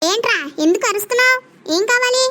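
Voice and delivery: a mother shouting across the house; annoyed mom calling back; irritated shout. Acted. Mother answers shouting son.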